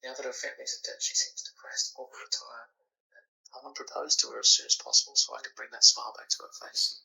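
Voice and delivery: hushed whisper, barely voiced. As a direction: whisper so no one wakes. Late night call, others asleep.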